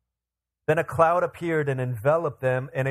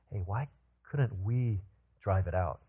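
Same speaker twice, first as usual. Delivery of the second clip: softer, lower aside; private question; 6 semitones lower, 6 dB quieter than usual. A narrator's reading. Disciples ask Jesus once indoors, in a lowered private voice. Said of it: "disciples asked him privately".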